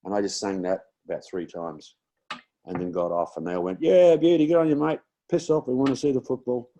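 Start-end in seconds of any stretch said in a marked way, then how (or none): 3.8-6.7 loud, high rowdy shout; crowd cheering. Retold or imitated. Thirty-three thousand fans telling the singer to leave, loud rowdy yell. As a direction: bellow it like a stadium crowd, half cheering half jeering.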